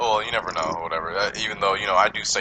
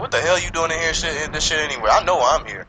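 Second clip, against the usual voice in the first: higher-pitched retold rant; indignant retort; 4 semitones higher, 3 dB louder than usual. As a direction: play up the mock outrage at the kid. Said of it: "I'm looking at him like".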